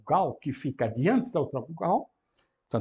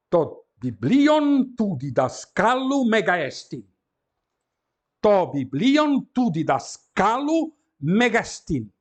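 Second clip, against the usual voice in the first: slow read; 3 semitones higher, 4 dB louder, slower than usual. Shown as a demonstration. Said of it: "teacher reads Greek example aloud".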